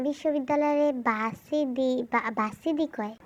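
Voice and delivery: বাসিডি said slowly with a b and a d; puzzling slowly over the word বাসিডি; mispronounced varsity. Real, not acted. Nuri slowly repeats বাসিডি, not knowing the word. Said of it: "আরে ওইটা ভার্সিটি".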